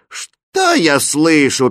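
high, loud, drawn-out disbelief; outraged princess cutting in; indignant interruption. A narrator's reading. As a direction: break in, scandalised.

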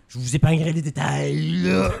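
mock a player dodging the question; Dernay. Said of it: "Puis il a dit". (imitation moqueuse d'un joueur en entrevue)

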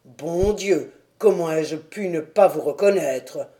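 lightly voiced hearty ex-boxer; a touch of the gruff pugilist; amazed old fighter. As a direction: greet an old opponent with rough admiration. Doorman recognises his old opponent.

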